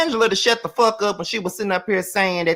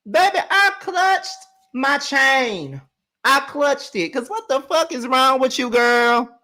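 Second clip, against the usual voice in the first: mock clutching pearls; 7 semitones higher, slower than usual. Mock shocked reaction.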